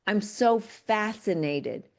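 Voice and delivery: "fascinated" said slowly and deliberately, as the better word; slowed, deliberate. Shown as a demonstration. Coach modelling the better word for a client, slow and deliberate. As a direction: model the new phrase, unhurried. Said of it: "I had her start saying".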